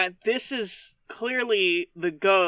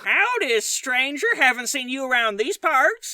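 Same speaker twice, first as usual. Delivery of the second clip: bartender voice; 2 semitones higher than usual. Pretend. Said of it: "I'm the bartender".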